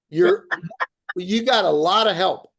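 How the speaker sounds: laughing through the reassurance. Real, not acted. Host reassuring agents on the call, laughing. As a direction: chuckle the words out, amused.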